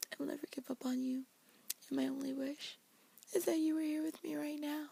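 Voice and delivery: high, fast, tearful plea; mock crying. Elsa clutching the necklace, pleading to Anna, mock tearful. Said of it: "she's all crying".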